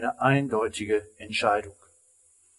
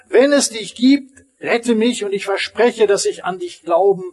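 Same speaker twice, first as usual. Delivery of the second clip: high, loud bargaining cry; man on the cliff shouts a bargain to God; shouted plea; 5 semitones higher, 4 dB louder than usual. Acted. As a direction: shout the promise up to heaven, begging. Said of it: "schrie er nochmal".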